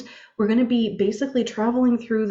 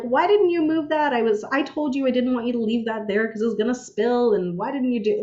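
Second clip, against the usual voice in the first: cranky nagging; 3 semitones higher than usual. Retold or imitated. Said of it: "I was in that energy".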